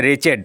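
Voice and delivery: wretched said as "retchid", two syllables; teacher models wretched as retchid; pronunciation of wretched. Shown as a demonstration. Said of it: "W R E T C H E D".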